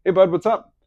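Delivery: high, loud friendly greeting; wife calling friend, bright high greeting; wife on the phone. Retold or imitated. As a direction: sound falsely cheery down the line. Wife calls on husband's phone.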